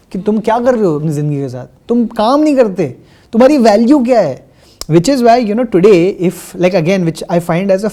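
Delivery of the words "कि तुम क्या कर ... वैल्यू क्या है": fast, loud rapid-fire scolding; mock judgmental jabs. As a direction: rattle off society's accusing questions. Voicing society judging unemployed men.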